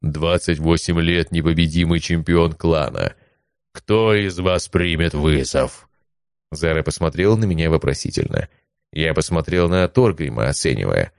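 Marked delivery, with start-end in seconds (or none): 0.0-5.9 rumbling giant voice. Acted. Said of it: "голосом, похожим на рокот лавины".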